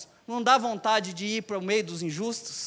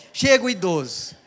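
loud, laughing call of the elder's arrival; mock announcing shout; 2 semitones lower, 5 dB louder than usual. Preacher mocking the crowd, loud laughing call.

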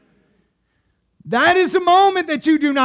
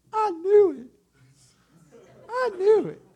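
higher, delighted; excited disciples; 8 semitones higher than usual. Retold or imitated. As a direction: blurt it out overjoyed. Preacher voices excited disciples.

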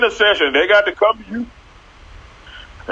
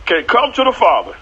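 preaching Jesus voice; 4 semitones higher than usual. Retold or imitated. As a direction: proclaim it like a preacher at full force. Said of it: "Jesus said".

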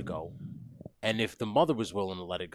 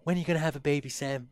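nagging mother; 5 semitones higher than usual. Acted. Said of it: "overbearing, like, "I need grandkids".

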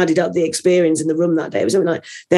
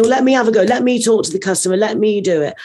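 eager volunteering; 4 semitones higher, faster than usual. Retold or imitated. Acting out drivers eager to join in.

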